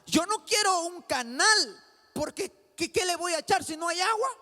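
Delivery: loud, high mock objection; doubting listener. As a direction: voice the listener's protest, half-shouted. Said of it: "Y usted dirá".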